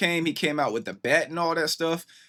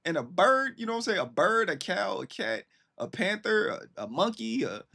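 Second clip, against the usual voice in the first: excited; 8 semitones higher than usual. Real, not acted. Listing the animals in the video.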